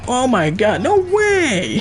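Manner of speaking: high shriek of disbelief; shrieking jackpot winner. Real, not acted. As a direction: squeal like you hit the jackpot. Shocked at game play.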